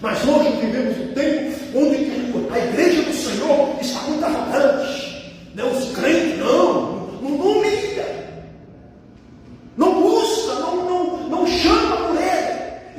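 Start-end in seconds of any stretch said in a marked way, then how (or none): 5.6-13.0 high, slowed, emphatic rebuke; impassioned preaching. Real, not acted. Preacher rebuking arrogant believers, impassioned preaching. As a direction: drive each failing home from the pulpit.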